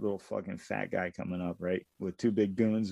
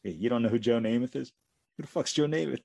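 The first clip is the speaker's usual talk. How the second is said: incredulous boss; 4 semitones higher, 4 dB louder than usual. Retold or imitated.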